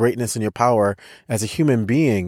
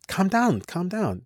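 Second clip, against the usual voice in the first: soft, higher-pitched reassurance; soothing soldier; 5 semitones higher, 6 dB quieter than usual. Retold or imitated. Soldier calming a scared traveler, soft and soothing. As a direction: imitate someone gently settling a nervous traveler.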